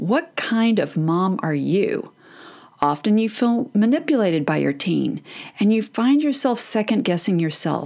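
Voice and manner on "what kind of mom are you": put-on judgmental voice, slower. Talking to moms about self-doubt, imitating a judgy mom. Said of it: "your own mom's judgy voice saying".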